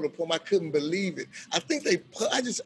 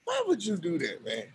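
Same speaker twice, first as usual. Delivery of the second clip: higher, louder exasperated complaint; exasperated inmate; 5 semitones higher, 5 dB louder than usual. Retold or imitated. Eric scolding the narrator for greeting him, exasperated. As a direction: scold him, half laughing. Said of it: "he said".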